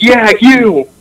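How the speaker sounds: high, emphatic mock call; imitating coach's yell. Coach calling down to a confused player, mock yell. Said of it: "he yells down".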